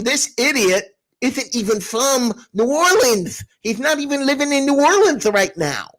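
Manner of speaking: mocking with a toothless lisp. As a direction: let the words slur through a missing tooth. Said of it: "you basically forget this tooth and you're good".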